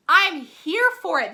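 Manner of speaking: loud, high, drawn-out enthusiasm; extra loud. Real, not acted. Vlogger cheering on a pomegranate makeup wipe, extra loud. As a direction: belt out your approval slowly. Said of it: "I'm being, like, extra loud".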